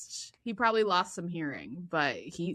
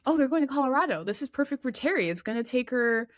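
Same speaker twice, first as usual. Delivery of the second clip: excited; 4 semitones higher, 3 dB louder, faster than usual. Retold or imitated. Friend voiced excitedly in retelling.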